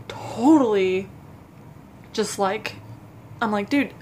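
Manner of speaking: anxious real stutter. Real, not acted. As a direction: stumble over the words, stuttering. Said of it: "I'm stuttering".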